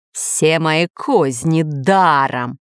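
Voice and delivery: slow, mildly angry grumble. Acted. Island master complaining to parrot, slowly and mildly angry. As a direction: drag out the mild fury. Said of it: "продолжал злиться хозяин".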